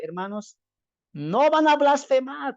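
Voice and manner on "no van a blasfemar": higher, slow mock preacher's warning; mock pulpit warning. Preacher imitating a pulpit warning to the congregation, slow and higher. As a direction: lightly imitate a preacher scaring the flock. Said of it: "desde el púlpito se predique".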